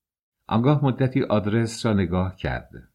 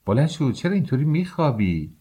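higher-pitched nudge to get up; rousing a sleeper; 6 semitones higher than usual. Acted. Maid waking the young lodger, rousing him. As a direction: chide him lightly for oversleeping.

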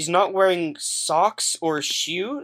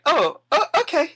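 surprised; 12 semitones higher, 3 dB louder than usual. Acted. NPC surprised by refusal.

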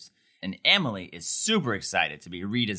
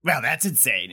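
higher-pitched excited retelling; excitedly mimicking a sudden verdict; 5 semitones higher than usual. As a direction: imitate someone excitedly showing it off. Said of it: "like, very excitedly".

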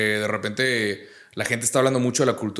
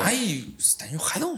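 mocking prissy voice; 8 semitones higher, 5 dB quieter, slower than usual. Mocking how people misread northerners.

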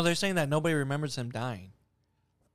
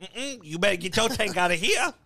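higher, sassy mock voice; sassy black woman; 5 semitones higher than usual. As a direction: imitate a sassy woman refusing. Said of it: "a sassy black woman came out of".

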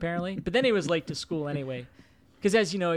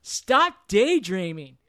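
mock stern dad lecture; 3 semitones higher, 5 dB louder, slower than usual.

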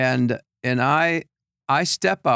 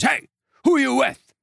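angry coach; 12 semitones higher than usual. Retold or imitated. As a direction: snap it like a furious coach. Angry coach confronting him.

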